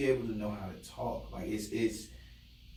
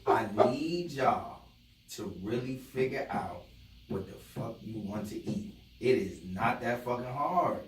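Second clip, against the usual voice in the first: exasperated, slow, drawn-out complaint; getting mad. Real, not acted. Man venting about not knowing what to eat, getting mad. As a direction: stretch the words out in real frustration. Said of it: "I'm getting mad now".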